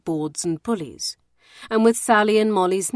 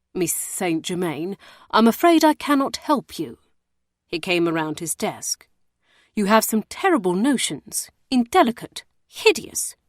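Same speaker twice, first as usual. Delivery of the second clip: louder, indignant refusal; scandalised warder; 4 semitones higher, 4 dB louder than usual. Acted. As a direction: rebuke the lady, worried and outraged.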